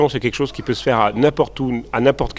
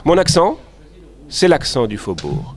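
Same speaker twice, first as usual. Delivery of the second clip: lightly demonstrated Faubourg accent, high rise then slow fall; 3 semitones higher than usual. Shown as a demonstration. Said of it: "Vous voulez que je le fasse?".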